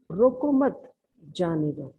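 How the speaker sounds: slow example, रोको मत run together, then जाने दो; pause after मत. Shown as a demonstration. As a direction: keep मत with रोको and break before जाने दो. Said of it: "दूसरी पिक्चर में आप देखिए".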